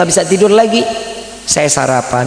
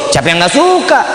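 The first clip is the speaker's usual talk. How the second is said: livelier, higher-pitched repeat; raised retort; 3 semitones higher than usual. Retold or imitated. Speaker repeats his answer about the car, raised retort. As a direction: lift "siapa yang nggak suka" well up, dropping at the end.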